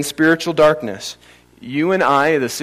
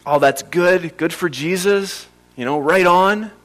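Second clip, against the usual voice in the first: higher, lightly mocking approval; mock casual approval; 3 semitones higher than usual. Preacher mimicking listeners' shallow approval of Jesus, mock casual. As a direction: play an easily pleased, uncommitted listener.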